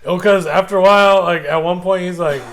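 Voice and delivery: ordinary talk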